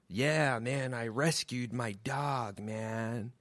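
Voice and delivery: slow, soft stoner hippie; comic voicing the hippie's smug answer; mock hippie drawl. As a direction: drift through it like a mellow hippie. Hippie voiced, dreamy reply.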